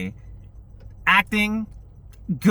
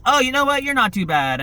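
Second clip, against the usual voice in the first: mock drama; 7 semitones higher than usual.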